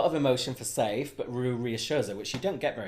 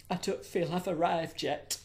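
mock soap actress; 6 semitones higher than usual. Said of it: "more old Coronation Street".

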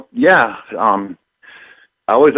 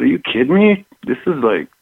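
excited disbelief; 5 semitones higher than usual. Retold or imitated. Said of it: "He said".

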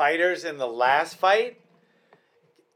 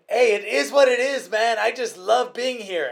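higher, cheerful Spanish-accented imitation; 8 semitones higher than usual. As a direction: mimic his happy Spanish accent after the fight. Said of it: "Spanish accent".

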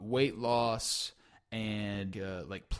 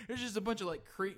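laughing; 6 semitones higher, 3 dB quieter than usual. Real, not acted. Describing grim image, laughing.

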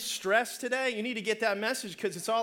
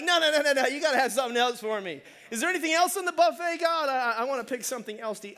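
raised, loud, hurried objection; mock protest; 4 semitones higher, 4 dB louder, faster than usual. Believer asks God for another option, rushed mock protest. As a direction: wave away the offer in mock dismay.

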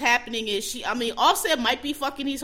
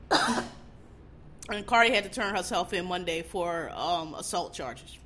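coughing through the words; throat catching; choking a little; 3 semitones lower, slower than usual. Real, not acted. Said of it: "Sorry, choking a little bit".

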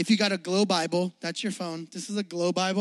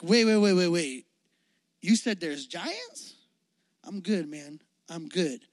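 scared backing out; 4 semitones lower than usual. Retold or imitated. Frightened Israelites backing away, hushed mock fear. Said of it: "they're like".

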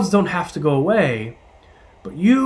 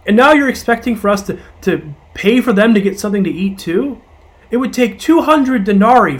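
raised, exasperated disbelief at the request; confused disciples; 3 semitones higher than usual. Acted. Tired disciples pleading with Jesus, confused and exasperated. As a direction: protest that it's impossible, pitch up. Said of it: "hear their confusion in their voices".

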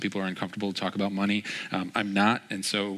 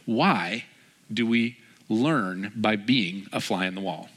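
slow, deliberate question; slower than usual. Real, not acted. Poses sermon's key question, then repeats.

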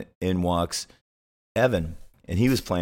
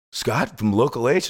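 mock surprise; 4 semitones higher than usual. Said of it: "He goes, gasps".

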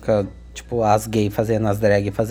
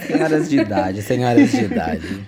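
laughing; 3 semitones lower than usual. Real, not acted. Laughing joke about older ladies.

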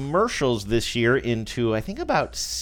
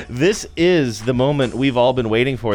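announcer voice; 5 dB louder than usual. Pretend. Announcing the award show opening.

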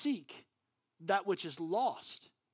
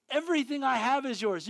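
Everything I have is yours again, Everything still stressed but softer; softer repeat; 10 semitones higher, 9 dB louder than usual. Acted. Father repeating the promise to his son, softer. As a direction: ease back, let Everything land gently.

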